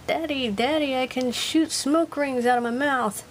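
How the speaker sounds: a hint of a child calling daddy. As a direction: pipe up like an eager little kid. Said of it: "picture of Minya going".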